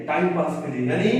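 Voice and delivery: ordinary talk, nothing marked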